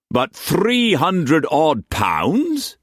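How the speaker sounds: slow, disbelieving question; incredulous. Acted. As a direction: drag it out in disbelief. Struan incredulous.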